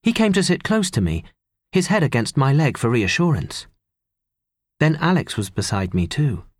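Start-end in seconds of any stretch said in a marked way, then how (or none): none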